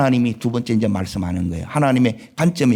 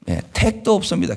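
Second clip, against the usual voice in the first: Gyeongsang dialect; 6 semitones higher than usual. Retold or imitated. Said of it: "경상도 말로 이렇게".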